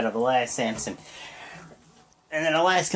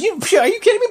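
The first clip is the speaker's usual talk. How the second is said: much higher and louder, disbelieving; mock outraged yell; 5 dB louder, much faster than usual. Strowman yelling at Roman after the spear, outraged mock shout. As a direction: shout it like a furious wrestler who can't believe it.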